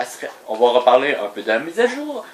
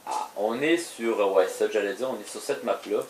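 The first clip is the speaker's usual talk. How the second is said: beaucoup plus doux, presque chuchoté; à voix basse; 6 semitones lower, 10 dB quieter than usual. Real, not acted. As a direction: baisser la voix d'un coup. Murmure soudain, beaucoup plus bas. (doucement, en aparté)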